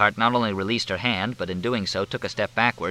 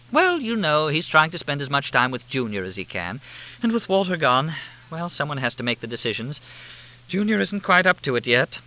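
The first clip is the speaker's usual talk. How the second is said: gushing hostess; 7 semitones higher than usual. A narrator's reading. Helena greeting the group with high gushing warmth.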